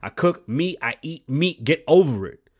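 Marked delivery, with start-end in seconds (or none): 1.7-2.5 loud. Real, not acted. Ranting at vegan critic.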